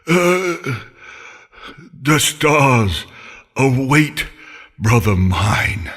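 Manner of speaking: low, slow pained farewell; a dying centaur, steady but hurting; voice thick with pain. Acted. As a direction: push the words through the pain. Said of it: "in a voice thick with pain".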